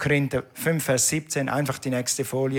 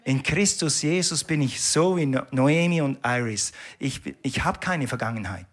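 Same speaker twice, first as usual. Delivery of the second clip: calm confident answer. Pretend. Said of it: "dann sagst du".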